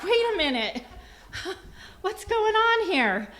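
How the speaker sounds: high, loud mock alarm, laughing; incredulous. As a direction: protest in comic disbelief, stretching it out. Acting out her incredulous reaction.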